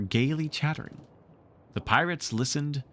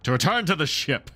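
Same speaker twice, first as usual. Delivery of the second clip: slow; 4 semitones higher, 4 dB louder than usual. A narrator's reading. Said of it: "Hook replied slow".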